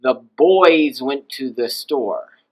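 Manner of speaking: put-on "boys" kept down at normal pitch and drawn out; slow, level "boys" as a plain plural; boys stays low. Shown as a demonstration. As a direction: say "boys" slowly without lifting the voice. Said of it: "Hear how my voice there stays low".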